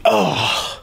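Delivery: heavy exhaled "oh" of overwhelm; overwhelmed groan. Acted. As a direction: let out a spent, breathy "oh". Overwhelmed by intense movie.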